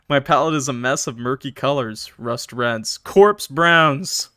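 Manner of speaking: measured, moody first-person narration; story narration. A narrator's reading. Streamer reading a horror story to chat, measured narration. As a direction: read it as a grim tale.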